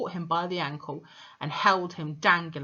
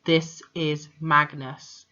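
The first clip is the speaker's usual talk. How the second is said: This is Magnus said slowly and louder, each word weighted; slow, louder ghost message; 2 semitones lower, 6 dB louder, slower than usual. Shown as a demonstration. Dead father's message to the headmistress, slow and ominous. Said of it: "Now remember, Magnus was".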